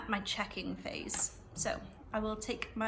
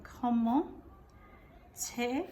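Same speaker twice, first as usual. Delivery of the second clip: spelled out while writing; much slower than usual. Shown as a demonstration. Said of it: "I'll have another go".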